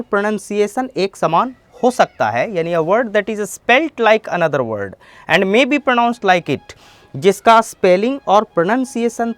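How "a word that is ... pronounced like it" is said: very slow, word by word definition; slow careful classroom dictation; slow dictionary reading. Shown as a demonstration. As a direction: spell out the meaning slowly for students. Reads English definition aloud.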